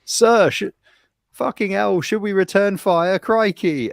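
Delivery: imitated high, loud panicked shout; mock-frantic crewman yelling up to his captain; alarmed sailor. Host acts out sailor begging captain to return fire, alarmed.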